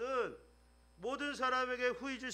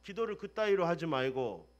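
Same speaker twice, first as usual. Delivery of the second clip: stern rebuke; 2 semitones lower, 4 dB louder than usual. Retold or imitated. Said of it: "이렇게 하자마자".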